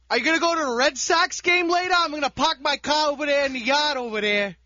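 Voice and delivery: shaky attempt at Boston accent. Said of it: "Boston Johnny".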